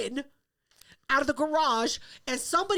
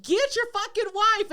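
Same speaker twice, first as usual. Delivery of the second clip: retold angry order; 6 semitones higher, 4 dB louder, slower than usual. Ordering husband to intervene.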